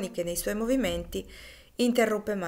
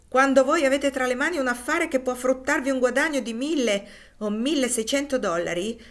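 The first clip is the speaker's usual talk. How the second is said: higher and louder, incredulous; indignant protest; 6 semitones higher, 5 dB louder than usual. A narrator's reading. Haley protesting Loker's demand for money, indignant. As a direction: argue back in outraged disbelief.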